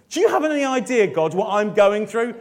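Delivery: mock exasperated plea. Mock complaint to God.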